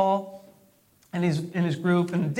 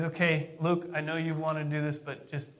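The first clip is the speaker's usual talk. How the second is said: confident aside; 4 semitones lower, 5 dB quieter than usual. Retold or imitated. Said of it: "if he says".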